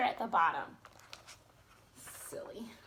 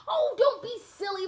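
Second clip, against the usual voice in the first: much higher, louder scolding; high indignant fairy; exclaiming fairy; 10 semitones higher, 8 dB louder than usual. Acted. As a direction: snap it at the other fairy. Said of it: "Flora exclaimed".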